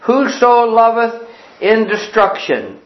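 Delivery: slow, careful read-aloud of a schoolchild; pupil reading aloud. Pretend. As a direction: read it slowly, word by word, in reading group. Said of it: "let's pretend that we're in a reading group".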